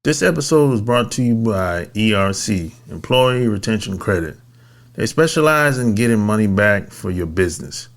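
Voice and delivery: measured podcast ad read; sponsor read. Acted. Host pitching a tax credit service to business owners, ad read. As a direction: pitch it in short, even phrases.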